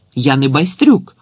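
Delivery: abrupt, sudden, loud shouted cry. Taunted by the other boys, he lifts his head and answers, shouted. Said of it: "підняв голову і крикнув".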